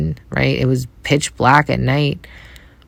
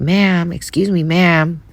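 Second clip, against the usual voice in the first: calling out; 4 semitones higher, slower than usual. Retold or imitated. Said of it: "he starts yelling at me".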